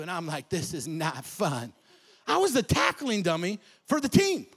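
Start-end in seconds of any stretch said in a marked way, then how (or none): 0.5-1.7 slow, low, dejected; glum. Retold or imitated. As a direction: drag it out miserably. Glum kid reply.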